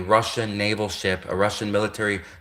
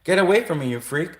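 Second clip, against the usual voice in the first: higher, hammed-up recoil, get away; mock disgusted soldier; 8 semitones higher than usual. Gay soldier fending off the nut job, high mock disgust. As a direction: push the freak off in a high mock squeal. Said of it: "soldiers would be like".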